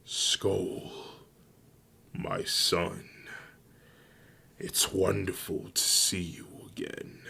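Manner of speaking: softly voiced father, a touch of wonder; tender greeting. A narrator's reading. Father greets his son again, mildly tender and hushed. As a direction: greet a long-lost son gently, lightly acted.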